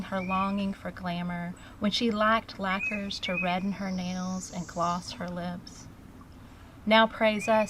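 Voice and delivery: measured recital, leaning on the opening words of lines; poetry reading. Acted. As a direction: recite it as a poem of praise. Reads her own poem aloud.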